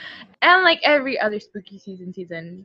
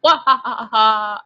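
cackling like a witch, half-hearted; witch laugh. Pretend. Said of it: "I need to practice my witch laugh".

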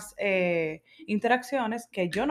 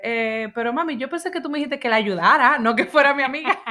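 put-on kid protest; 4 semitones higher, 5 dB louder than usual. Daughter's literal protest.

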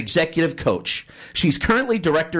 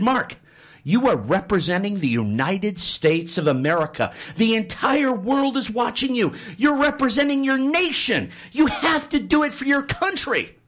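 higher, earnest pep talk; urging coach; 5 semitones higher than usual. Acted. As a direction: coach pleading with his swimmer to try. Coach appeals to country.

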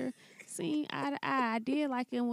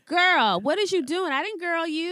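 put-on white girl voice; 5 semitones higher than usual. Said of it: "in my black girl voice".

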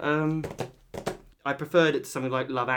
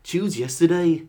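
building trailer speech; 4 dB louder than usual. Acted. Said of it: "my actual tagline".

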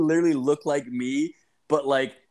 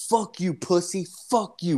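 put-on higher-pitched mouthy kid; imitated defiance; 5 semitones higher than usual. Unhooded kid cursing the storyteller, imitated defiance. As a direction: throw the insult back, pitched up.

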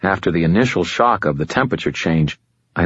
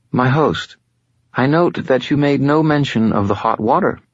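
higher, silky voice of an ancient fallen angel, calm and superior; fallen angel Lashiel; 9 semitones higher than usual. Acted. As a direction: speak as a patient otherworldly being, a little above it all. Lashiel speaks.

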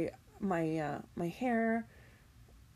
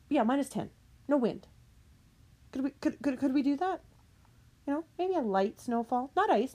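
raised-pitch pleading haggle; pleading rant; 5 semitones higher than usual. Real, not acted. Vlogger bargaining with Mother Nature, high and pleading.

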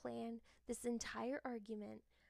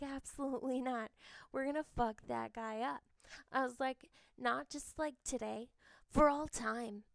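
rising to a loud shout of defiance by the end; fierce vow; 6 dB louder than usual. Retold or imitated. Vowing to her friend she'll get revenge, building to a loud shout. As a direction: swear you'll ruin him, building louder.

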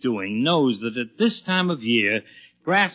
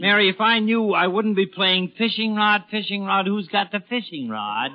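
exasperated father; 5 semitones higher than usual. Acted. Father snapping at his wife about the lost rod, exasperated. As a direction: fling the words up in frustration.

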